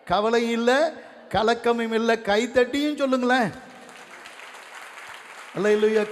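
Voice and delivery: triumphant revival-meeting shout; full-force preaching. Real, not acted. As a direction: rouse the congregation to proclaim it with you.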